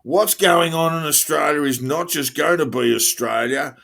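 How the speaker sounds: a hint of a megaphone rally cry; imitating protester. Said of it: "protesters said to a megaphone".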